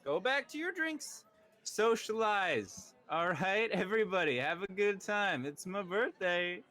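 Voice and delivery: high, showy lord calming his party guests; pompous host. Acted. Lord hushing his party guests, pompous and high. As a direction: boom it out like a vain birthday host.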